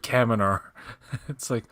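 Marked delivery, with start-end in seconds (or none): 0.0-0.6 Kaminar with a Mid-Atlantic r at the end; Mid-Atlantic pronunciation. Shown as a demonstration. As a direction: say Kaminar the way the show's accent bends it. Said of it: "entire sentence is American up until the end".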